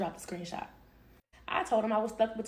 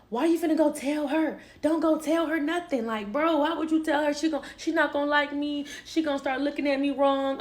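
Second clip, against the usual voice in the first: lightly imitated higher-pitched protest; mock pleading; 5 semitones higher than usual. Boyfriend begging her not to tell mama, mock pleading. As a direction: plead in a raised pitch, half in earnest.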